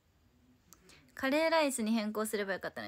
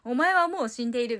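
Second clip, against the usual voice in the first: loud, emphatic death pronouncement; anime catchphrase; 8 dB louder than usual. Acted. Streamer imitating a line from Hokuto no Ken, mock-menacing. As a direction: deliver it loud, like an anime hero's verdict. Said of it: "北斗の拳みたいな".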